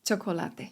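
"Chocolate" with a soft Spanish CH. Shown as a demonstration. Teacher showing learners the Spanish CH, "Chocolate" said softly on the CH. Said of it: "wymawiana w taki miękki sposób".

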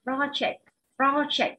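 "project" with the beat on "pro"; stress on first syllable. Shown as a demonstration. Teacher showing students the word, "project" stressed on "pro". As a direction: hit "pro" in "project", let "ject" fall away. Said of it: "danh từ nó rơi vào âm một".

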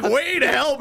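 sarcastic. Retold or imitated. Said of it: "And you're like".

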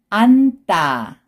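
안따 as one word with tense tt; read together. Shown as a demonstration. Teacher shows how it reads together, linked pronunciation. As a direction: link 안따 with a hard second syllable. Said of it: "you have to pronounce".

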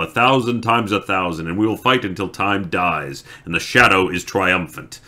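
the betrayer shouts his defiance at Lews Therin; building to a shout. Acted. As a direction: rant at him until you are yelling. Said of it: "He finished in a shout".

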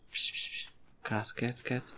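soft shushing, barely voiced; hushing. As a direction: hush it like a skittish animal. Hushing a creature to stay calm.

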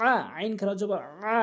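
আ pressed from the middle of the throat; throat sound demo. Shown as a demonstration. Teacher demonstrates ain with pressure for learners. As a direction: push the আ out from mid-throat. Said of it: "চাপ দিয়ে হলকের মাঝখান থেকে".

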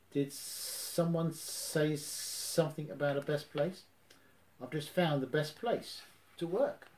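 slow, odd-sounding gopher; a lightly voiced gopher interrupting. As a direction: pop up and drawl it out. Gopher popping up.

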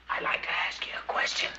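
hushed, voiceless whisper. Acted. Visitor obeys the librarian's rules to ask something, whispering.

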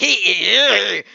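drawn-out, creaky "hee" cackle; loud put-on witchy laugh; high cackle. Fortune teller taking the deal, high cackle.

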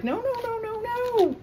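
high, squeaky imitation of a friend saying "No, no, no"; playful high-pitched imitation of a friend objecting; mock friend. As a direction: squeal it like the friend horrified at white rice. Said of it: "my friend's like".

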